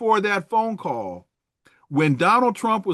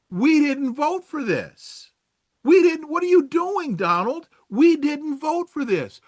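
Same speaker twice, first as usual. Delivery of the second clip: mock MAGA voter; 7 semitones higher than usual. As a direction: play a betrayed Trump voter whining at Donald. Voicing angry MAGA voters.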